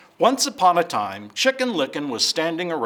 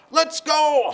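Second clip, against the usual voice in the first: very high, loud honk of a goose; 5 dB louder than usual. Acted. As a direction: honk it out eagerly. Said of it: "honked Goosey Lucy".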